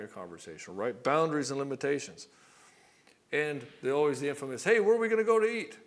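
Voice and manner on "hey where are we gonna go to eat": a higher, louder mock girlfriend voice; girlfriend asking. Girlfriend asking her man where to eat, in a higher, louder mock voice. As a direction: toss off the question like a bored girlfriend.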